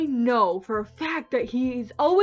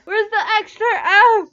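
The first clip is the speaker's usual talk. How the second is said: laughing disbelief; 9 semitones higher, 10 dB louder, much faster than usual. Real, not acted.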